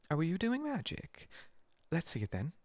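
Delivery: put-on girl demanding to see the spell, lightly bossy. A narrator's reading. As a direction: pounce on the magic, a little bossy. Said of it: "She had a bossy sort of voice".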